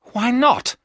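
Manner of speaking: sharp, high, loud protest; angry cry. A narrator's reading. Jonathan protesting to Van Helsing, angrily crying out. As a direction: fire the question back in anger. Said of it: "Jonathan cried angrily".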